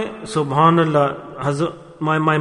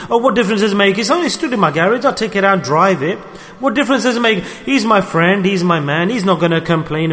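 careless excuse; 2 semitones higher than usual. Pretend. Careless man excusing misuse.

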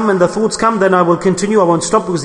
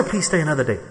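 gentle plea; 5 dB quieter, faster than usual. Retold or imitated. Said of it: "I'll say".

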